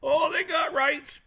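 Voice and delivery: high, slow mocking tone; mocking whine. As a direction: sneer out the liberal line.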